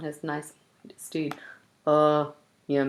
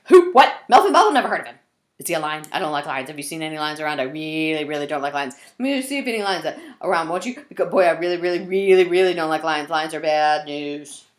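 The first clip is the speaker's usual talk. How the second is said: a lightly voiced jittery zebra, loud on Melvin Bubble; nervous zebra; 6 dB louder, faster than usual. Zebra worries aloud about lions, mock nervous.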